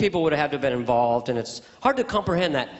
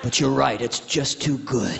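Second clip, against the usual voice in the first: giving in; 4 semitones lower than usual. Acted. Acted cop gives in.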